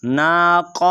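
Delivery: नाक़ with a heavy back-of-throat q; heavy q closing नाक़; thick Qaaf. Shown as a demonstration. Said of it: "काफ मोटा है".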